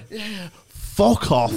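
slow, laughing dismissal; a loud laughing yeah yeah, fuck off; laughing brush-off. Retold or imitated. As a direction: laugh it out while telling him to get lost. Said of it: "And just went".

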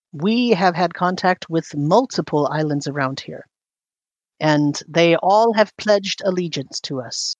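measured, lightly regal ruler; lightly voiced queen. Queen answers visitors about allied islands, lightly regal. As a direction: speak as a ruler stating her standing.

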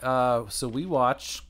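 talking while crunching; munching through the words; crunching chips. Real, not acted. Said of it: "Can you hear me crunching?".

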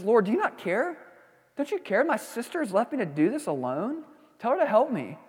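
a touch of whiny anger, pitch lifted; mild mock anger. Pastor voicing Martha's complaint to Jesus, mildly indignant. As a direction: complain like a frustrated sister, lightly. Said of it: "What's the tone? ... a bit of anger".

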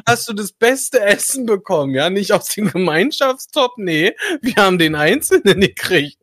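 overdriven, distorted mic; too loud for the mic, clipping. Real, not acted. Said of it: "du übersteuerst".

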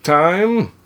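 high, slow announcer sign-off. Pretend. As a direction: play a cheesy TV announcer.

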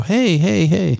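high sing-song greeting call; calling out hey. Pretend. Greeting friends at a meet and greet, high calling hey.

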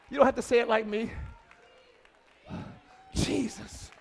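soft, intimate sermon; hushed preaching. Real, not acted. Quiet intimate preaching stretch.

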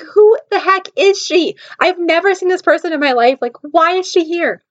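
high-pitched, indignant inner rant; jealous outburst. Retold or imitated. Woman raging inwardly at a rival, jealous outburst. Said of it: "I'm just super jealous of her".

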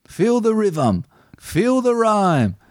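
put-on high, slow Jamaican accent; hammed-up Jamaican coach voice. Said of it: "comes out with a Jamaican accent".

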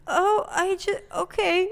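high, loud flustered surprise; high startled stammer; startled coworker. Retold or imitated. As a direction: blurt it out, caught off guard. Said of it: "She was like".

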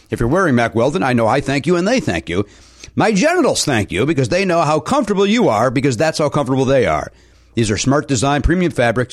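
upbeat sponsor read. Acted. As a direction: sell it like a podcast ad. Host reads a sponsor ad.

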